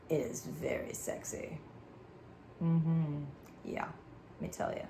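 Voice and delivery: breathy whisper, drawn close. Real, not acted. Telling men crying is attractive, in a whisper. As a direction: whisper it like a secret. Intimate aside to viewers.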